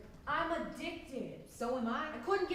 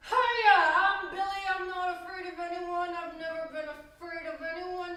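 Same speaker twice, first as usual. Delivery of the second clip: loud high greeting, then a raised defiant run; bold declaration; 4 semitones higher, 4 dB louder than usual. Acted. Friend introducing themself on a dare to avoid swearing, bold declaration. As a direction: proclaim fearlessness in a raised voice. Performs fearless introduction after being dared.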